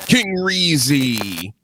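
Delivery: ring announcer. Acted. Echoing ring announcer intro.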